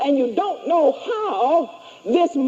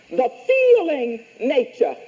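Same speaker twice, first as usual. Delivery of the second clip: dictating. Shown as a demonstration. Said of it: "read it back to me".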